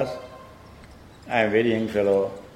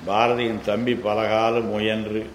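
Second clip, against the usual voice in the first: rapid Tamil reading; much faster than usual. Shown as a demonstration. Teacher reading the Tamil commentary aloud, fast. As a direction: read the Tamil passage at a fast clip.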